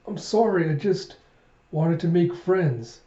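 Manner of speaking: put-on apologetic child. Little dragon explaining himself to his guardian, apologetic.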